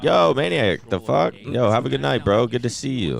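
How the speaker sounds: high, lively mimicked fan greeting; excited greeting. Stranger greets a streamer at the door, imitated high enthusiasm. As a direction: hail him like an excited stranger.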